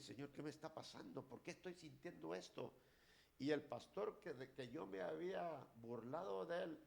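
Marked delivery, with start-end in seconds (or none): 0.0-2.7 troubled prayer. Retold or imitated. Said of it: "Y dije".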